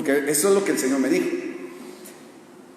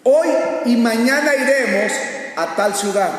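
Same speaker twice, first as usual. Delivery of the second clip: tag; 6 semitones higher, 4 dB louder than usual. Acted. Quotes the boastful verse forcefully.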